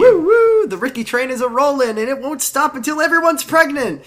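high, loud hype-man shout; frat bro. Pretend. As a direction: pump it up like a party bro. Hyping the Ricky train.

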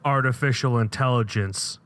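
lightly voiced cheesy movie dialogue; a hint of hammy B-movie delivery; quoting a bad movie line. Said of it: "let's just say he says this line".

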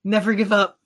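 strained, rousing hero voice; rally friends while straining; heroic strongman voice. Acted. Strongman holding jaws apart.

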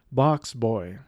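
mindless monotone listing. Shown as a demonstration. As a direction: read the names without interest. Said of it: "mindlessly list them in a monotone voice".

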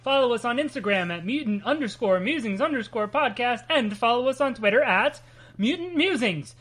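lively scripted host welcome; podcast intro read. Acted. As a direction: read out the show's opening.

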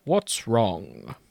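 lightly voiced wise wizard; a touch low, gently concerned; a hint of a grave old wizard; Gandalf. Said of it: "my best Gandalf impression".

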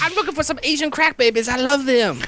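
lightly voiced snooty bored cat; a touch of a lazy cat. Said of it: "I'm just doing my cat voice".

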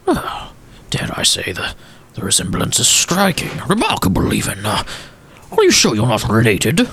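a hint of a polite, wistful old gentleman; old gentleman Walsworth.

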